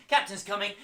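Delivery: loud, high game call. Shown as a demonstration. Teacher calling captain's coming to the class, loud and high. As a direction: shout the warning to the crew.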